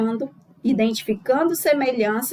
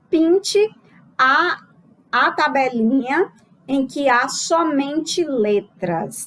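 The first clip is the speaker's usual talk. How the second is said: slow, raised voice as if reading an exam item aloud; reading the task aloud; 2 semitones higher, slower than usual. Shown as a demonstration. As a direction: read the instruction slowly to the class. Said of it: "Eu trago aqui a seguinte questão".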